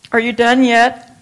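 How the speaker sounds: teacher nagging the nurses, loud and teasing; impatient question. Retold or imitated. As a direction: call out teasingly, "done yet?". Dying teacher asking impatiently.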